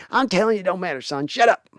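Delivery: high, brushing off his son; Jerry impression. Owner dad shutting his son up, high mock voice. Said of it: "more Jerry and Steven".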